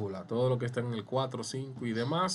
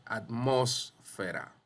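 atmósfera slowly, with "mós" stressed; slower than usual. Shown as a demonstration. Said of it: "mos, sílaba tónica".

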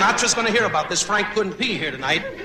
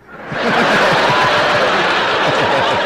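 big laugh; 7 dB louder than usual. Real, not acted. Roast laughter.

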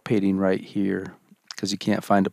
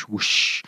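whooshing. Shown as a demonstration. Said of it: "listening for whoosh".

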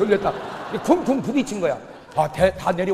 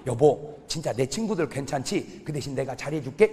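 lower, soft and reassuring; gentle husband; 6 semitones lower, 4 dB quieter than usual. Acted. Husband calmly reassuring his complaining wife, soft and low. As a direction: calmly promise to do better. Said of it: "그러면요, 남편이".

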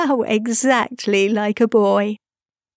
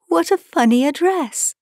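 laughing, pitched up high; Wendy laughing at Peter's odd address; 8 semitones higher than usual. A narrator's reading. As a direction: giggle through the line.

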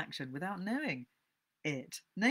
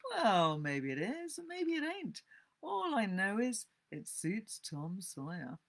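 drawling, swooping nonchalance; casual, airy indifference; careless answer; 4 semitones higher than usual. Acted. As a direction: shrug it off as if you couldn't care less. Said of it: "answered carelessly".

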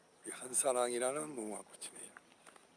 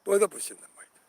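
loud Gyeongsang dialect line; playful Gyeongsang dialect jab; 6 semitones higher, 10 dB louder, faster than usual. Real, not acted. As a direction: say it in broad Gyeongsang dialect, louder. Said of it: "전부 다 경상도 말로".

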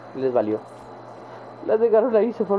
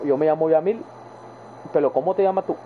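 lightly imitated coastal Costa Rican accent. Imitating his friend Yamil, coastal Costa Rican accent. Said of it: "el acento como más costeño".

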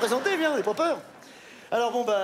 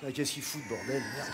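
muttering; 3 semitones lower, 6 dB quieter than usual. Acted. Muttering impatient.

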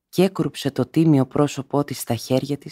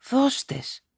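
compassionate sigh; 12 semitones higher than usual. A narrator's reading. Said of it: "σπλαχνιστικά ο μεθυσμένος, στενάζοντας".

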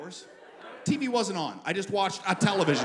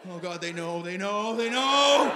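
mock paranoid panic; slower than usual. Nervous smuggler on the flight, mounting mock panic. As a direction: let the panic swell on each repeat.

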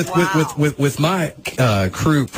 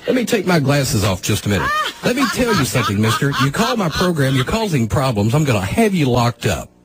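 threatening host; 6 semitones higher than usual. Acted.

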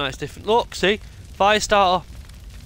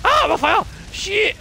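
much higher, louder panicked yell; real alarmed shout; 7 dB louder, slower than usual. Real, not acted. Streamer yells in panic as he catches fire. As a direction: yelp as the flames hit.

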